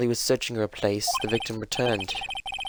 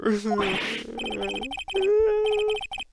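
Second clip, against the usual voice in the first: mock wail; 3 dB louder than usual. Acts Larry wailing in despair.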